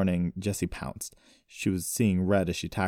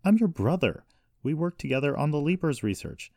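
high, raised-voice protest; angry appeal; 9 semitones higher, 4 dB louder than usual. A narrator's reading. Brother reminding sister of their bond, angry appeal. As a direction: insist angrily on your family tie. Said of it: "sounding angrier".

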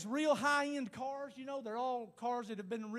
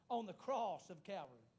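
solemn close; 3 semitones lower, 7 dB quieter than usual. Real, not acted. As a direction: drop down reverently after the cry. Hushed close after the shouted line.

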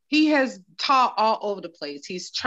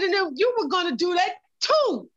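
higher pitch, TOO hit hard at the end; emphasis on last word; 6 semitones higher than usual. Retold or imitated. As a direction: imitate an upset dad punching the final "too". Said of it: "He put an emphasis on something".

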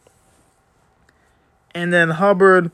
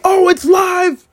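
high, slow, stretched announcer call; Mike Tirico call; 13 semitones higher, 4 dB louder, slower than usual. Retold or imitated. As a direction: belt it like a TV play-by-play man. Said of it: "He made such a great call".

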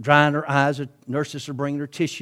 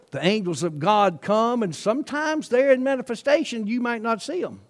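normal talking voice

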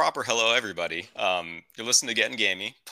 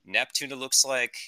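lightly voiced pilot making an in-flight announcement; a hint of a captain on the intercom; airline captain; 2 semitones higher than usual. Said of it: "This is your captain speaking".

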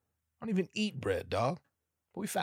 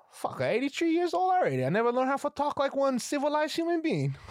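put-on much higher, louder old grandma ranting; 5 dB louder than usual. Grandma complaining about her age, high and loud. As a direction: rant like an old lady fed up.

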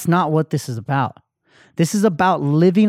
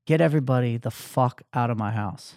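softer, lowered voice, drained; low, defeated order; 4 semitones lower, 6 dB quieter than usual. Retold or imitated. Crying man to his cousin outside the party, low and defeated. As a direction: quietly tell him to clear everyone out.

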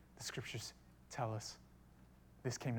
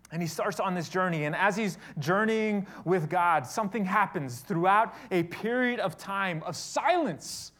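loud, raised sermon voice with stretched key words; louder, higher pulpit storytelling; impassioned preaching; 4 semitones higher, 9 dB louder than usual. Acted. Preaches at full force.

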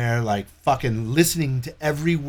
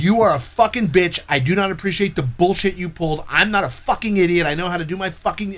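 angry tirade; 4 semitones higher than usual. Retold or imitated. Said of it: "rained hell on her".

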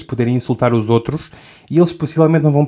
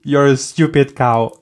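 joking insult; slower than usual. Shown as a demonstration. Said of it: "imagina que tu queres chamar alguém".

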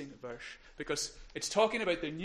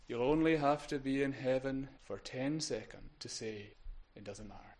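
Malcolm MacLean; 3 semitones lower than usual. Retold or imitated. Quoting a favourite preacher on suffering, light Invernessian twang. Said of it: "long Invernessian twang in his accent".

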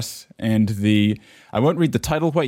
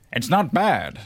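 sighing Waluigi; 6 semitones higher, slower than usual. Acted. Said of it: "sighed Waluigi".

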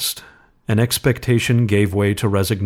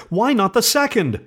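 very high urgent question; feverish; 14 semitones higher than usual. A narrator's reading. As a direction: press him feverishly. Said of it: "said the old woman feverishly".

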